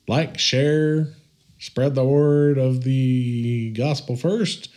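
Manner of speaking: overplayed promo voice, high and bouncy; exaggerated cartoon intonation. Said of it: "Why are you talking like that?".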